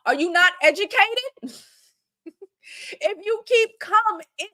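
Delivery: mock girlfriend scolding in broken English; imitating her broken English. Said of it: "in her broken English".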